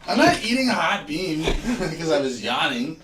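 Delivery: high, loud laughing refusal; laughing protest. Real, not acted.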